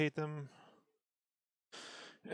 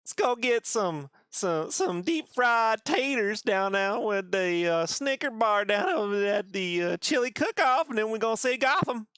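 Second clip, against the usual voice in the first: hammed-up Southern country voice; country accent. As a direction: ramble like a country boy off to a cook-off. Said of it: "Very country like".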